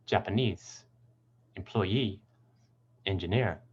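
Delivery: "Japanese, employee, engineer" stressing NESE, EE, NEER; "Japanese, employee, engineer", each with a strong final syllable; stress on suffix. Shown as a demonstration. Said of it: "the suffix itself is usually stressed".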